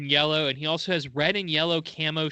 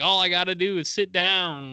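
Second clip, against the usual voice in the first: imitated Southern accent, pitched higher; Sting; 4 semitones higher than usual. Host quoting the wrestler's taunt, mock Southern accent. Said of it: "Sting gained a Southern accent".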